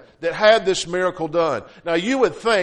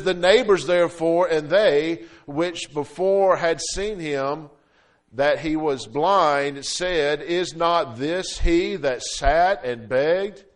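scripture reading; slower than usual. Acted.

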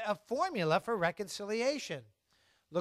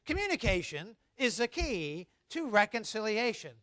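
recited together; 3 semitones higher than usual. Shown as a demonstration. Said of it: "Let's say that together".

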